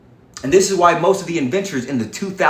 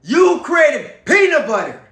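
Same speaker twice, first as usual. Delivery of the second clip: mocking voice; 9 semitones higher, 5 dB louder, slower than usual. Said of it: "They said".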